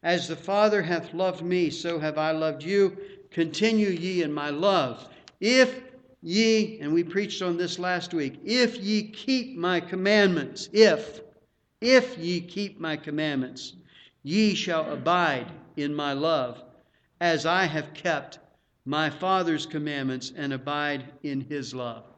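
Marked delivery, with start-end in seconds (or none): 0.0-6.8 emphatic, raised scripture reading. Acted. Preacher reads of the Father's love, emphatic reading. 8.4-22.0 forceful start, settling by the end; scripture reading. Acted. Preacher stresses the condition to abide in love, emphatic reading.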